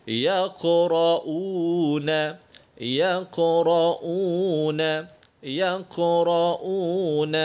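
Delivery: يقرؤون with the ق bounced, recited; qalqalah on qaf. Shown as a demonstration. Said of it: "Itu cara bacanya".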